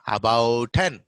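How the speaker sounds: about with a full opening "aa"; Telugu-English pronunciation. Shown as a demonstration. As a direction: say "about ten" as "aa-bout ten". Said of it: "We say".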